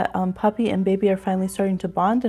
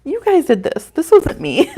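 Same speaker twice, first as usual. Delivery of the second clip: higher, louder playful protest breaking into laughter; mock protest; 6 semitones higher, 6 dB louder than usual. Mama defending herself to her crying little ones, laughing mock protest. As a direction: plead innocence, amused and pitched up. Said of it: "And I'm like".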